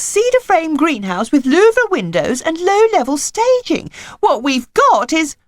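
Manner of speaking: high, tearful wife voice; on the verge of crying, high and strained; close to tears. A narrator's reading. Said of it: "who was close to tears".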